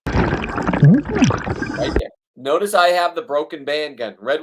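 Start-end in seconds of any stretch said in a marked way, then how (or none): 0.1-2.1 high, loud excited call-out. Real, not acted. Diver spotting a halibut, excited call-out. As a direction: point it out with a thrill. Pointing out a fish.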